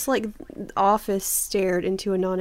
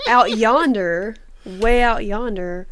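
drawled yonder; slower than usual. Shown as a demonstration. Drawling a rural phrase.

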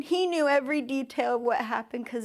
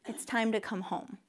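quiet inner voice; 8 dB quieter than usual. Retold or imitated. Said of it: "Holy Spirit goes".

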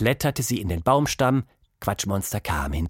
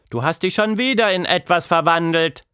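put-on mildly exasperated, higher-pitched child character; disappointed; 8 semitones higher, 4 dB louder than usual. A narrator's reading. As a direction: complain in a let-down child's voice. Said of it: "sagte Tilda enttäuscht".

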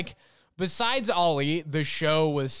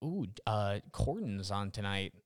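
mock fan; 5 semitones lower, 6 dB quieter, slower than usual. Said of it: "who waits up and they're like".

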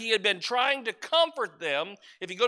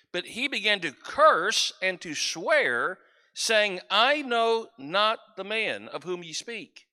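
scripture reading. Acted. Reads the scripture passage aloud.

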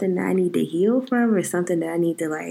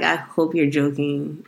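smiling reply; 5 semitones lower than usual. Retold or imitated. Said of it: "And I was smiling about it".

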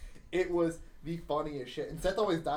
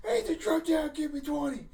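high, loud coach command; coach's order; 11 semitones higher, 5 dB louder than usual. Retold or imitated. Coach ordering a student to do pushups, high commanding voice. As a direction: snap the order like a gym coach.

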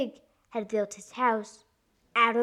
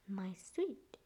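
soft, endearing reply; softly acted storybook endearment; soothing; 2 semitones lower, 12 dB quieter than usual. A narrator's reading. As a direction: soothe the caller gently. Riding Hood soothes pig.

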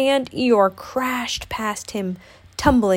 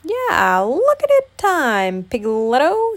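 high, loud, stretched-out urgency; Tigger; 6 semitones higher, 5 dB louder, slower than usual. A narrator's reading. Tigger points out the window, excitedly urging. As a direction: call it out big and bouncy. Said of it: "said Tigger".

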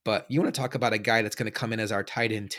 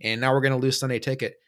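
fast, a bit louder and higher, flustered; panicked confession; 3 semitones higher, 4 dB louder than usual. Retold or imitated. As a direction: blurt it out in a mock panic. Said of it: "I was freaking out".

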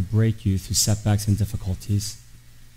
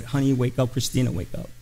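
gentle wake-up call; 5 dB quieter than usual. Retold or imitated. Father gently waking his daughter.

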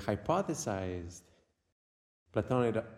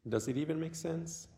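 unhurried meditation guide with long pauses; guided meditation. Acted. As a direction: guide the listener inward, leaving long silences.

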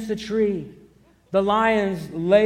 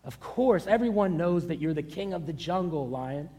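tiger's meek answer; 3 semitones lower, 6 dB quieter than usual. Acted. Tiger answering the lion meekly.

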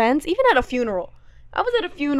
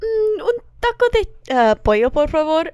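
mock bad Spanish; 5 semitones higher than usual. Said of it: "whenever I'm out with people who do not speak Spanish".

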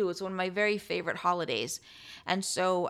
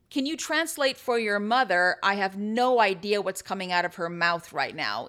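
mock indignant, a little louder; rude complaint; 5 dB louder than usual. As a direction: imitate an indignant server. Acting out a rude restaurant server.

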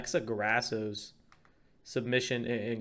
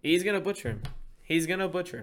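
higher pitched, hyped prediction; excited boast about the fight; fired up; 5 semitones higher, faster than usual. Real, not acted. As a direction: pump it up, sure of the knockout. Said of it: "Teddy got all fired up".

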